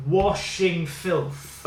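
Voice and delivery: very slow and drawn out. Pretend. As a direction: sound it out slowly, piece by piece. Guessing the puzzle syllables aloud.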